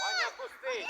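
shout. Real, not acted. Coaching calls across the pitch.

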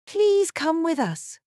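high, slow and curt; sharp command. A narrator's reading. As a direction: order her, cutting and stern. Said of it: "a sharp voice".

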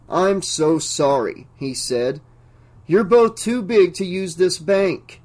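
polite yet firm, slow at first; courteous but unbending banker; deferential but firm. Acted. Locked-in banker turns away the visitors, deferential but firm. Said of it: "deferential but firm tone of voice".

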